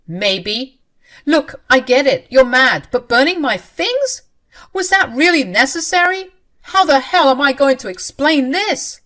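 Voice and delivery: high, loud exasperated shouting; angry yell. Acted. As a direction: yell at her, totally fed up. Husband keeps yelling at wife.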